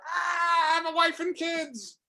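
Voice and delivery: very high, squealing gremlin cry for mercy; a tiny creature screaming as it's booted off; gremlin plea. Acted. Gremlin kicked off the truck begs, shrieking high.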